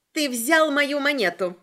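crowing in triumph; triumphant cry. Acted. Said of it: "торжествующе вскричала она".

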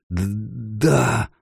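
hoarse stammer. Acted. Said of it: "прохрипел гном".

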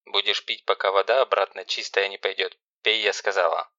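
stern sister giving orders; ruthless. Acted. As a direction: lay down the law without pity. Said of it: "безжалостно".

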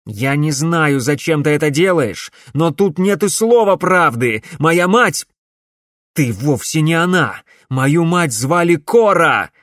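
loud, high angry outburst; furious denial. A narrator's reading. Alex furiously denies she is his mother. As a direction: refuse it with rising fury.

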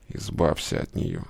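тихий низкий голос дьявола, негромко; дьявол тихо приказывает сверху. A narrator's reading. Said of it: "сказал дьявол". (дьявол велит Славе, глухо и тихо)

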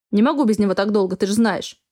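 mocking, sarcastic jab; snide mockery. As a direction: sneer it out snidely. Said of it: "Ехидно стебусь я".

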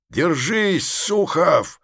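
high rallying call; shout. Acted. Vereshchagin shouts to Sukhov from the boat. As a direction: call out to a friend in battle. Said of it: "кричал Верещагин".

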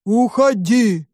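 slow drawn-out monster. A narrator's reading. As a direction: stretch it like a dull beast. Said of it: "ответило чудовище". (протяжный голос чудовища)

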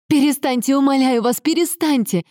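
high-pitched desperate female plea; sudden high, distressed outcry; pleading cry. A narrator's reading. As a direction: beg them to stop, crying out. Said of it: "внезапно закричала Аньезе".

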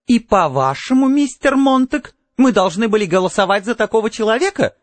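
high, affronted society lady; indignant exclamation. A narrator's reading. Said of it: "воскликнула миссис Фелпс".

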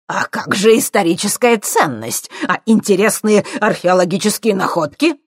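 high, loud outraged; indignant professor. A narrator's reading. Professor defending science, loud and indignant. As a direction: protest in indignation.

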